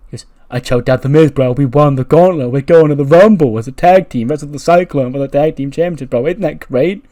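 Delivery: loud excited bro voice; pumped-up surfer bro. Retold or imitated. Riddle impression, bro.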